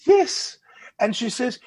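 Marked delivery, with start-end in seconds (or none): 0.1-0.6 high, loud exasperated assurance; emphatic yes. Retold or imitated. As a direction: fire it back high and loud. Retold exasperated second answer.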